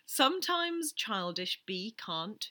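slow word-by-word reversed quote; backwards speech. Shown as a demonstration. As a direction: read it back to front, slowly. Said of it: "I'm gonna say backwards".

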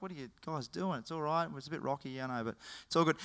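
soft, unbothered and reassuring; calm reassurance. Acted. Jesus soothing scared disciples in a soft calm voice. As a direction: settle frightened friends gently.

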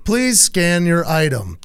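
slow robotic machine voice; a slow automated checkout prompt; self checkout prompts. Retold or imitated.

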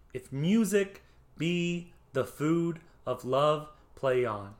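slow iambic reading, MUSIC stressed on "mu"; metered verse reading. Shown as a demonstration. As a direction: read the line slowly with a beat on music, food, love, on. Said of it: "Notice the mu in music is stressed".

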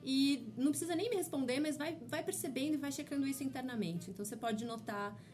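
calm, unhurried guiding voice; gentle mindfulness guide; guided meditation. Acted. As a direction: ease the listener into noticing. Guided mindful drinking exercise.

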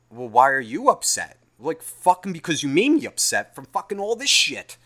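loud, high argumentative outburst; re-enacted indignant quarrel; acted exasperation. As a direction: fire it back, fed up. Acts out exasperated argument over upset.

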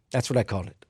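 usual speaking voice

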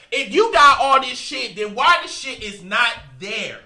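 loud, heated complaint about the fees; loud indignant rant. Real, not acted. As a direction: raise your voice in outrage. Ranting about false phone advertising.

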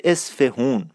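"اصفهون" as es-fe-hoon, slowly; outsiders' mispronunciation. Shown as a demonstration. Teacher quoting what no local would say, wrong "اصفهون" with oo. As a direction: sound the h and a long oo in "اصفهون".

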